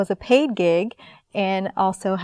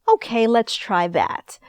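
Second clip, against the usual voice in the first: whispered; 2 semitones higher, slower than usual. Retold or imitated. Agreeing to accent on the spot.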